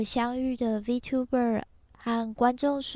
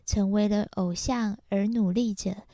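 normal talking voice

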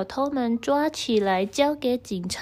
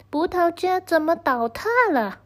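shocked grandpa; 7 semitones higher than usual. Acted. Grandpa finds vineyard collapsed.

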